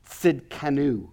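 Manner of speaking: Tsidkenu, slowly, with emphasis on the middle syllable; Hebrew pronunciation. Shown as a demonstration. Teacher showing a Hebrew name, Tsidkenu said slowly with middle stress. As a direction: say Tsidkenu with an initial ts, stressing ken. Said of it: "you always emphasize the middle syllable".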